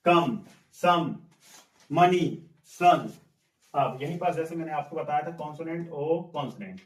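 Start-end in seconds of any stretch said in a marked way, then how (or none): 0.0-3.1 कम, सम, मनी, सन with a short 'uh' vowel, word by word. Shown as a demonstration. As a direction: model the 'uh' in कम, सम, मनी, सन, slowly separated. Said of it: "sound क्या है? आ है". (कम, सम, मनी, सन में छोटी अ की आवाज़, अलग-अलग)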